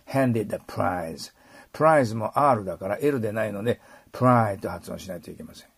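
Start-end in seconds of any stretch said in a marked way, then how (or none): 0.1-1.3 handed a prize slowly, handed ending without a vowel; no 'do' ending. Shown as a demonstration. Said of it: "どと言わないように".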